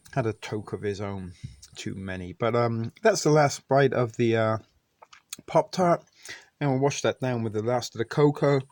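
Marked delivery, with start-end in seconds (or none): 3.0-8.6 talking with mouth full. Real, not acted. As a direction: talk through a mouthful. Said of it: "even though I'm talking with my mouth full".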